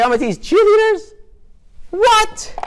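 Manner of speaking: very high, loud incredulous squeal; hammed-up shocked whine; outraged disbelief. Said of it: "And she's like".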